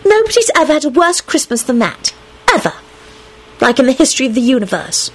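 high, grudging sulk; sulky. A narrator's reading. Ginny admits his Christmas was worst, sulkily. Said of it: "Ginny said sulkily".

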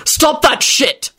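slow, high, forceful bark. Acted. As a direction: snap it out as a command. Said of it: "Quentin barked out".

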